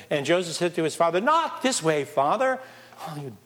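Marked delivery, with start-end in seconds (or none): 1.2-2.6 higher, urgent protest to his father; Joseph's protest. Acted. 3.1-3.3 mock exasperation. Mock scolding of a clumsy father.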